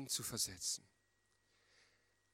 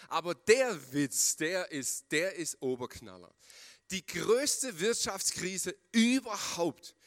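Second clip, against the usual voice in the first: louder, higher, hammed-up scoff at a ridiculous idea; over-the-top sarcastic outburst, higher and louder; sarcastic mockery; 5 semitones higher, 7 dB louder than usual. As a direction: laugh it off as the joke of the century, much louder. Sarcastic mockery of God's plan.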